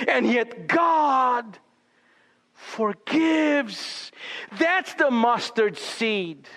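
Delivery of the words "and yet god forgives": proclaiming. Real, not acted. Climax of the sermon.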